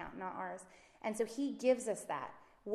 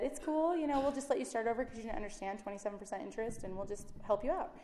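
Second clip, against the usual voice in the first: mock kindly lender; 3 semitones higher, faster than usual. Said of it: "nobody at the end who said".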